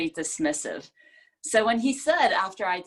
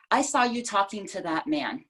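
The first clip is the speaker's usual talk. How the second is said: "saw" lifted and leaned on; stress on saw. Shown as a demonstration. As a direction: put the weight on "saw". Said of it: "depends on the words that we emphasize".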